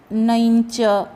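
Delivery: नञ्च with a ny sound before ch; palatal nasal. Shown as a demonstration. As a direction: sound the ञ clearly in नञ्च, like "nainycha". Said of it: "न के बाद जो अनुनासिक है उसका उच्चारण".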